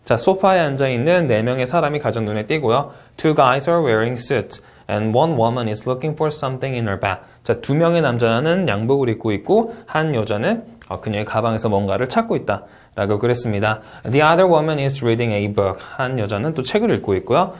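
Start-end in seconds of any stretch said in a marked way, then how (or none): 3.2-7.2 very slow, clear model sentence; slow model answer reading. Shown as a demonstration. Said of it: "가보도록 할게요". 14.0-15.8 very slow, clear model sentence; slow model answer reading. Shown as a demonstration. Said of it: "가보도록 할게요".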